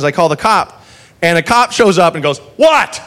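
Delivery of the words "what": drawled, slow lazy cop, high and put-upon; lazy cop who can't be bothered; mock lazy cop. Cop's lazy reply voiced.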